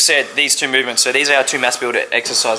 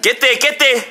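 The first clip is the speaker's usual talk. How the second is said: counting workout reps; 7 semitones higher than usual. Real, not acted. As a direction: push him through every rep. Spotting partner through a set.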